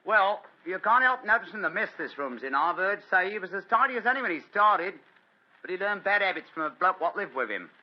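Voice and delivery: Holmes lightly putting on a working man's voice; detective in disguise as a gasfitter, lightly voiced; disguised British workman. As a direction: play a humble tradesman at the door, a touch rough. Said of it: "a typical example of the British working man".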